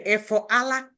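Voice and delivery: "Efu ala" pronounced with f, not p; Owerri dialect form. Shown as a demonstration. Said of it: "we say".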